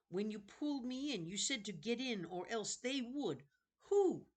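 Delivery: put-on a frightened kid pressing for an answer; boy demanding to know who, rising to a sharp high "Who?"; nervous boy. Jonathan voiced questioning the librarian.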